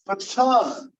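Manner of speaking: "baton" stressed on the second syllable, with a fully sounded T; clear T. Shown as a demonstration. Teacher contrasting it with butter, "baton" with a clear T. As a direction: keep a true T in "baton", leaning on "ton". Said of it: "That's still a T".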